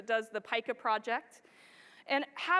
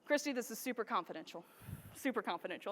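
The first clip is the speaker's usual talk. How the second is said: hushed confidential; 4 semitones lower, 8 dB quieter, faster than usual. Retold or imitated. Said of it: "I get this call from Michael Corrado".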